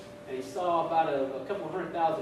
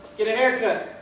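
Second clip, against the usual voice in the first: loud, high barked command; drill sergeant; 6 semitones higher, 10 dB louder, slower than usual. Acted. Drill sergeant to arriving recruits, shouted order. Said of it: "the drill sergeant said".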